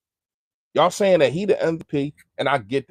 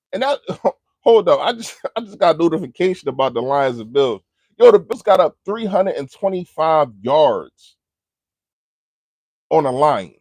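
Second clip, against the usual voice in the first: excited outburst; 2 semitones higher, 6 dB louder than usual. Real, not acted. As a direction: blurt out the surprise score. Halftime notification reaction.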